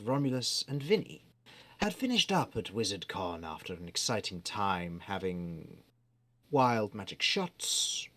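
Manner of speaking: measured game master recap voice; storyteller narration. Acted. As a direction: set the scene like a fantasy narrator.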